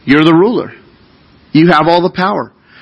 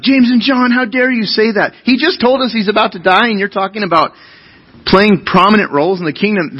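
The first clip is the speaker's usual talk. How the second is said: outraged disciples; 5 semitones higher than usual. Retold or imitated. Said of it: "they're like".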